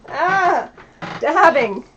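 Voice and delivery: loud startled yelp; startled shout. Real, not acted. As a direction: cry out as you get dabbed. Getting dabbed in the face.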